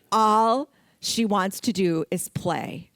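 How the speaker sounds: chuckling through the line; laughing. Real, not acted. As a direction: laugh as you say it. Laughing about the playful dog.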